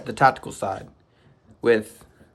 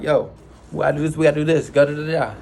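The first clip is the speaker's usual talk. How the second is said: urging the squad; 3 semitones higher, faster than usual. Retold or imitated. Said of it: "I'm like".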